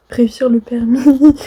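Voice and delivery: loud. Real, not acted. Nervous before exam.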